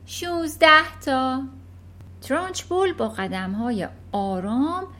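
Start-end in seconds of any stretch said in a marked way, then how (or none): 0.1-1.4 put-on little boy's offhand answer, higher and slowish; careless answer. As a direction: toss off the answer like a careless kid. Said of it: "روپرت سرسری جواب داد". (جواب سرسری پسربچه)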